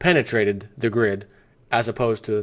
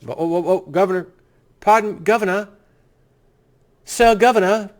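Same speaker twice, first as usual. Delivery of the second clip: higher, fawning, pleading mock deference; mock servile aide; 6 semitones higher than usual. Host playing a groveling aide to the governor, mock servile.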